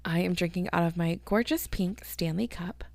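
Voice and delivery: soft unvoiced whisper aside. Real, not acted. Podcaster whispering to listeners while chugging from her cup. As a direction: breathe it between sips. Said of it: "whispers while drinking".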